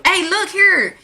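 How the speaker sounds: flirt with a stranger, half teasing; playful pickup voice; flirty pickup line. Retold or imitated. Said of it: "'cause I'ma tell you".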